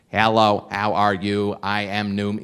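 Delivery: a lightly voiced goofy robot greeting; half-hearted robot, barely changed from his own; stupid robot voice. Greeting party guests as the robot, mildly robotic. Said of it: "I did a stupid voice".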